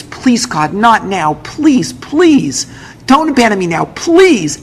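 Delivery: rising, desperate begging; pleading prayer. Retold or imitated. Father begging God not to abandon him, rising plea.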